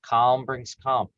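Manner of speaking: slow, even, steady repetition; slow calming mantra. Shown as a demonstration. Coach calming herself when worked up, slow soothing mantra. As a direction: repeat it slowly, calming yourself. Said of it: "telling yourself over and over again".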